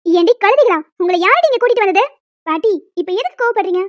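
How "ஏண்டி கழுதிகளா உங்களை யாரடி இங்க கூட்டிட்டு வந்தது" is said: loud, demanding scold; angry yell. Acted. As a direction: bark it at the girls. Grandma yells at the intruding girls.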